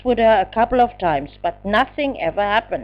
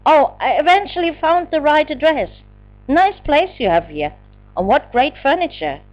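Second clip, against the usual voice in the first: gushing; 7 semitones higher, 3 dB louder than usual. Acted. Gushing intruder's voice.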